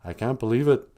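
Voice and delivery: a desperate abandoned man calling after departing troops; mock desperate cry after leaving soldiers; stranded interpreter. Acted stranded interpreter quote.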